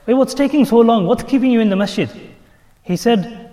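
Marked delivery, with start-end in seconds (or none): 0.1-2.1 raised, high calling voice; impatient master. Acted. Master calls to his servant inside the masjid, impatient call. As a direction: shout in to someone from outside. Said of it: "the master says from outside".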